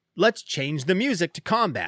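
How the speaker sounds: plain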